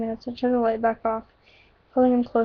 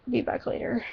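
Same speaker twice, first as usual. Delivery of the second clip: breathy whispered goodbye; 7 dB quieter than usual. Acted. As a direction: whisper it softly on the way out. Leaving lover whispers a goodbye.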